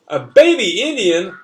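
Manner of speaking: a mild mock holler; hollering witch. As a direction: call it out like a lady in costume. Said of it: "a lady witch hollers at me".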